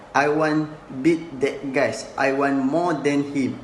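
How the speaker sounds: quoting the line with beat stressed. Shown as a demonstration. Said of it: "the speaker stress on word beat".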